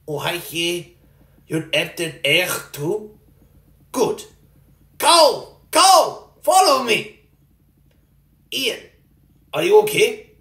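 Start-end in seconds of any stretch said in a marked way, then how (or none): 5.0-7.2 shouting to a friend across the map; yelling for a teammate to follow; calling out loudly. Real, not acted. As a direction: call out, louder.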